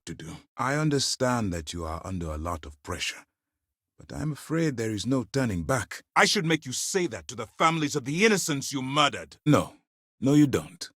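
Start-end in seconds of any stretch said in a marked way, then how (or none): 6.2-9.4 higher-pitched, heated reproach; angry accusation. Acted. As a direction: accuse them with rising indignation. Accusing someone of murder.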